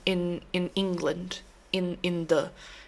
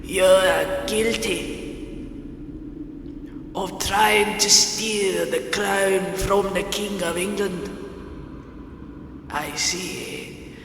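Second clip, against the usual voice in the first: put-on British accent. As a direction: play a British torturer passing judgement. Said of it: "I'm gonna do a British voice".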